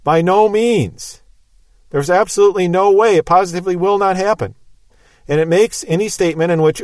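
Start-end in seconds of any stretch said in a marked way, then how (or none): 0.0-4.5 absolute, leave no room for doubt; emphatic refusal. Shown as a demonstration. Teacher spelling out the strongest Greek no, emphatic. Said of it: "the strongest possible "no".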